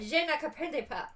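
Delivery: French phrase with a laugh in it. Retold or imitated. Pretending to answer a French speaker, laughing. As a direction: laugh as you fumble the French. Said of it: "I'd be like".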